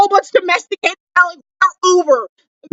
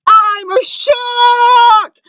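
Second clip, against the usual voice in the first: higher, shouted disbelief; shocked shout; 4 semitones higher than usual. Real, not acted. Fan yelling about moving day, shocked shout. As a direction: belt out the shock. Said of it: "the loudest you will ever hear me".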